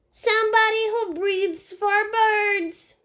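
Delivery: put-on high little boy voice, slow; a small child explaining matter-of-factly. Fudge in the tree explaining to Sheila, in a high little boy voice.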